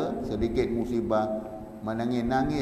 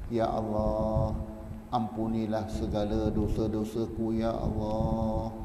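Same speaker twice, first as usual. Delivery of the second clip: pleading prayer; slower than usual. Shown as a demonstration. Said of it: "Merayu kepada Allah".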